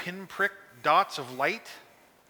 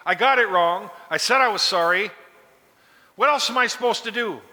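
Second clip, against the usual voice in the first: a touch of hurt, pleading frustration; frustrated groveling; 2 semitones higher, 4 dB louder than usual. Retold or imitated. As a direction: plead like a man who already apologised. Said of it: "a frustration, a groveling".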